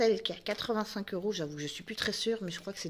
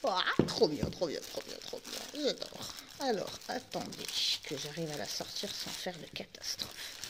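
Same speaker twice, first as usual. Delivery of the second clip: excited whisper; 4 dB quieter than usual. Real, not acted. Thrilled to find Lilo and Stitch.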